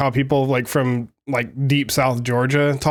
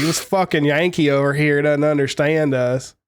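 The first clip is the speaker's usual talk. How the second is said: put-on Southern accent; 2 semitones higher than usual. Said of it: "they're probably like".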